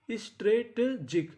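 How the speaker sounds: स्ट्रेटेजिक said slowly, syllable by syllable, ending on a rise; slow, careful स्ट्रेटेजिक for students to copy; slow model pronunciation. Shown as a demonstration. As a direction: draw स्ट्रेटेजिक out slowly for the class, lifting at the end. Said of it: "teacher models the new word".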